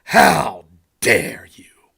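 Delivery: breathy mock-outraged whisper, slow; mock indignation, whispered and slowed right down. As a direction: hiss the outrage under your breath, mocking it. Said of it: "when you get this reaction".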